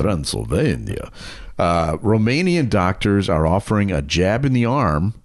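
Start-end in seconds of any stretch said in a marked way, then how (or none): 0.1-1.1 put-on lower, Dracula-style Transylvanian accent. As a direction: roll it out like Count Dracula. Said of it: "Do the Transylvanian accent".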